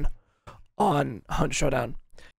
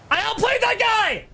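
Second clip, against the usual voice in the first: excited. Real, not acted. Gloating after winning a fight.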